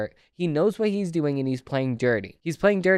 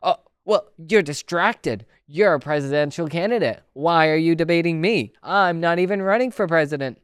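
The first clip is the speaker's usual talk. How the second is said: mocking Newsom. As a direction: mimic the opponent as smug and dismissive. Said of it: "Gavin Newsom turns around and says".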